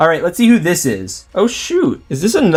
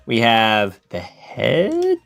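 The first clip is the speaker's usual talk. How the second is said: slowed dramatic reveal; 3 semitones lower, 3 dB quieter, much slower than usual. Acted. Slowed dramatic listing of parts.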